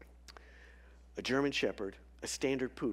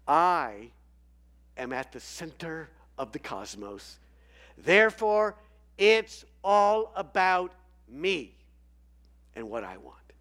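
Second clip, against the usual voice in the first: voice of evil; 3 semitones higher, 9 dB louder than usual. Acted.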